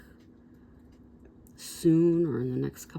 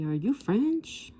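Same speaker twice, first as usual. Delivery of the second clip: 1 curious question; 6 semitones higher, slower than usual. Retold or imitated. Retells guard questioning her.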